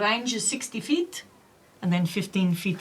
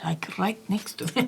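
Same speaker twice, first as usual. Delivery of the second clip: laughing whisper. Real, not acted. Sheepish admission.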